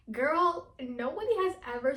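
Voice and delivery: sudden loud exclamation. Real, not acted. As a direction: blurt it out in disbelief. Exclaiming at the compliment.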